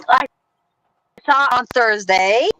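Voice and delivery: distorted chipmunk connection. Real, not acted. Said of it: "You sound like a chipmunk that's going slow".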